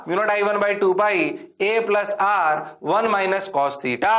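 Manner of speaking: whole formula drawn out word by word; slow dictation. Shown as a demonstration. Teacher to class, dictating the formula slowly. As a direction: read it slowly so they can write. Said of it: "ना बोलना पड़ेगा".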